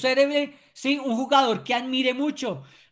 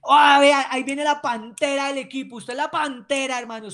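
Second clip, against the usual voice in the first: hyping a player; 3 semitones higher, 6 dB louder than usual. Shown as a demonstration. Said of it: "un deportista que es veloz".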